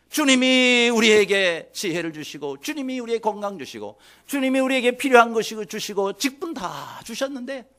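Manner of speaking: usual speaking voice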